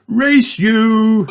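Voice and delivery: high, loud dare; playful challenge. Acted. Daddy dares Mummy to a race, high. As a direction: challenge her gleefully.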